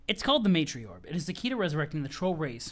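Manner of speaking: a hint of a solemn mentor; pompous Jade. Jade explaining the Matriorb to Roxy, lightly pompous. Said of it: "pompous voice".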